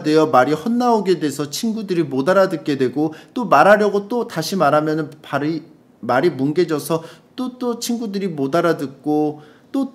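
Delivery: lively radio letter read. Acted. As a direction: read out a listener's worried message. Reads a listener's letter aloud.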